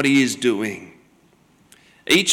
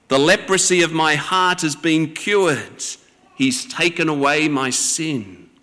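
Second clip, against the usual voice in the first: lightly acted excitement of a boy; a touch of Christmas-morning eagerness, kept understated; boyish enthusiasm. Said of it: "he sounds like a ten-year-old boy bursting with enthusiasm".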